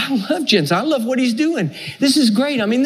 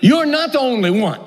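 scolding God; 2 semitones higher than usual. Acted. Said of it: "God scolds him and says".

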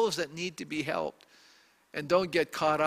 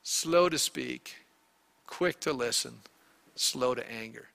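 slow recitation; 6 semitones lower than usual. Shown as a demonstration.

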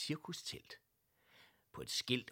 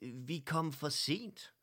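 dismayed cry; 6 semitones higher, 4 dB louder, slower than usual. Acted. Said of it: "råbte hr. Olsen overrasket".

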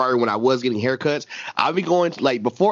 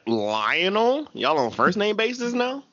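retold incredulous question; 6 semitones higher, slower than usual. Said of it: "she's like".

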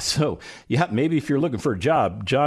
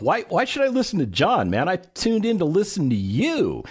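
skeptical listener; 7 semitones higher than usual. Retold or imitated. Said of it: "you're thinking to yourself".

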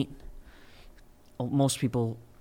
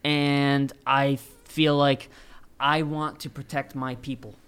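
muffled by a mask; through a face mask; 3 semitones higher, 5 dB louder than usual. Real, not acted. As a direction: speak through a cloth mask. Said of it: "I'm wearing a mask right now".

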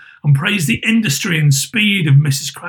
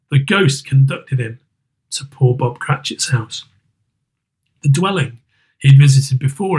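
plain reading voice

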